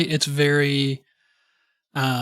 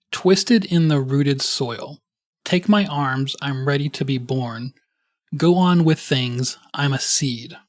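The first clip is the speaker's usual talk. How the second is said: slow lyric reading. Acted. Reads song lyrics aloud.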